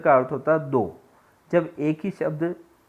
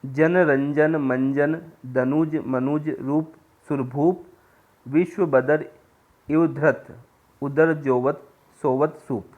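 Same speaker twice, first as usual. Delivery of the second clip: slow, measured verse recital; poem recitation; slower than usual. Shown as a demonstration. Teacher reciting a verse example to students, slow recital. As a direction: intone the couplet slowly, savouring each sound.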